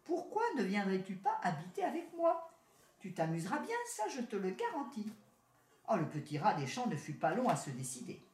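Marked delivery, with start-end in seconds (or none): 0.1-5.1 lightly higher city rat, smug and friendly; a touch of the proud town cousin. Acted. City rat greeting his country cousin, lightly voiced.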